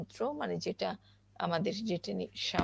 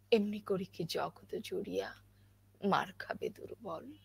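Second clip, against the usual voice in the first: questioning emotion; 5 dB louder than usual. Shown as a demonstration. Recites a poem for students with questioning emotion. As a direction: recite with pained, questioning feeling. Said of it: "এখানে কিন্তু আমি আবেগ নিয়েছি, প্রশ্ন করেছি".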